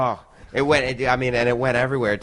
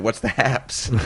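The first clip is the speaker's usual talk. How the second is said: retold with a laugh breaking through; chuckling as you ask it; laughing question; slower than usual. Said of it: "And I looked at Brock and said".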